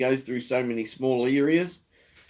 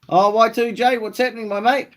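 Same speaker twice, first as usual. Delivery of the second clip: excited greeting; 8 semitones higher, 4 dB louder than usual. Real, not acted. Greeting a viewer in chat.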